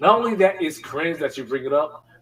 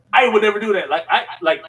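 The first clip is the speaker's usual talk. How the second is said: laughing mid-sentence; 8 semitones higher, 6 dB louder, faster than usual. Real, not acted. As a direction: say it while laughing. Laughing while protesting.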